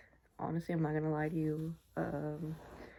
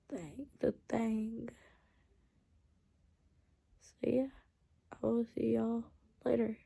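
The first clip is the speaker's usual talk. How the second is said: drowsy, sleepy voice; barely awake, fading; falling asleep. Real, not acted. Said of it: "I'm, like, literally falling asleep".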